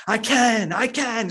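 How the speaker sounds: imitating a preacher's screamed, high chant; retold screaming. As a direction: echo his scream, but mock and lighter. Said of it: "He just starts screaming".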